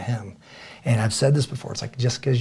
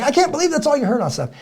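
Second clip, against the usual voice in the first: imitating disbelief; 4 dB louder, faster than usual. Wife's disbelief retold.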